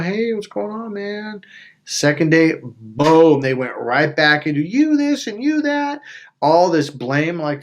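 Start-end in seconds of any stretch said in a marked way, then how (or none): 0.0-1.4 high, easygoing mock welcome; put-on friendly family voice; friendly greeting. Family's friendly greeting on first day. 4.6-6.0 high, drawn-out nagging imitation; singsong accusatory mimicry; mock blaming.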